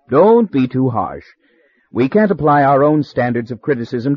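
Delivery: soothing. Acted. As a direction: gently pour oil on troubled waters. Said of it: "in his best oil on troubled waters voice".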